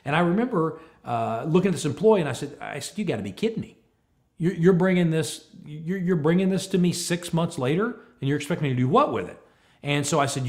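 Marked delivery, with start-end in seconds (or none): 3.0-9.4 higher-pitched, incredulous telling-off; retold scolding. Boss to employee reporting an injury late, scolding. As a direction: imitate going at someone in disbelief. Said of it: "I started just going at him".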